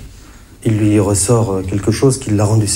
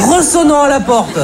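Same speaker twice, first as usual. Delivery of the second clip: very high comic indignation; incredulous squawk. Acted. Comedian scoffs at a plumber coming back, high incredulous squawk. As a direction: squeal at the absurdity of it.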